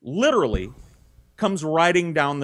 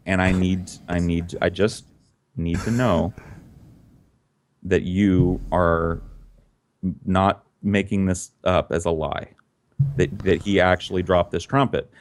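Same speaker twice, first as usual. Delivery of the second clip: grave fatherly talk; 5 semitones lower than usual. Acted. Dad confides gravely to son.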